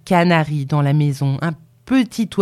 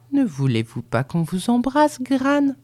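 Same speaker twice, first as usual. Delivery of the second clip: cajoling, lightly sweetened question; coaxing; 8 semitones higher than usual. A narrator's reading. Grandson offers Gran a kiss, coaxingly. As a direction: coax gently, lifting the pitch on the final word. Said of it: "demanda-t-il d'un ton câlin".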